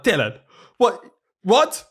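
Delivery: stunned parents calling out; mock shock at the news. Parents' shocked reaction retold.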